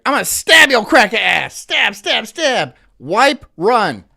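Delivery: loud, high mock threat, stab stab stab hammered; retold stabbing threat, shouted; menacing threat. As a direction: act out the attacker lunging. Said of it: "And he was like".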